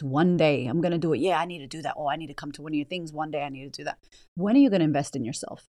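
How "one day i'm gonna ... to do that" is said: trailing off quieter and quicker; half-hearted excuse fading to nothing; mock lazy excuse. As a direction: mumble the promise as it fades. Mocking procrastinator again.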